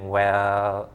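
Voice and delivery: "Well" down and up; third tone. Shown as a demonstration. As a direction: dip "Well".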